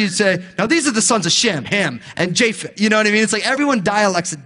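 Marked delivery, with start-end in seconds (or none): 0.6-2.8 New Jersey accent. Shown as a demonstration. Pastor mocking how New Jersey pastors read the names, New Jersey accent. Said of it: "If you're from New Jersey".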